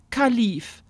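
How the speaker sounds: matter-of-fact, falling name; a simple statement of the name; aunt naming the bird. Acted. Aunt tells Alexa the bird's name, matter-of-fact. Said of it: "sagte Tante Irmtraut".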